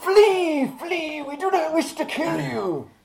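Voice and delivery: high, ringing heroic cry; shouted warning. Acted. Hero urging guards to flee, high loud shout. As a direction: call it out across a battlefield. Player in character warns guards away.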